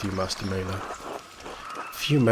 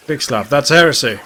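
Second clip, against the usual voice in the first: loud scandalised cry of heresy; outraged shout; 3 semitones higher, 11 dB louder than usual. Acted. Outraged NPC reply.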